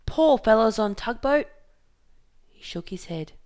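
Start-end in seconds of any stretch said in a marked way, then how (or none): 0.1-1.5 "Poor fellows on tugboat!" called loud and higher, POOR stressed; loud pity. Acted. Fingerbone pities the sailors, loud high pitying cry. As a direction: cry out your pity over the storm. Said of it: "he bellowed".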